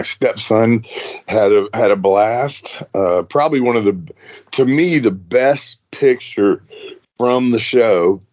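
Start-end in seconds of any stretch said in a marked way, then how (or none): 2.9-8.2 talking through hiccups; hiccuping between words. Real, not acted. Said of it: "Excuse me, I'm hiccuping".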